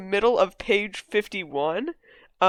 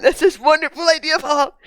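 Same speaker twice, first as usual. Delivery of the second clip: higher, hammed-up Trump impression reading an essay; 7 semitones higher, 6 dB louder than usual. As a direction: read it like Trump giving a speech. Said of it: "I'm gonna read it in a Trump voice".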